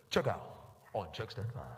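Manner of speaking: low flat intercom call; cashier calling out. Retold or imitated. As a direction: call the lane like over a store speaker.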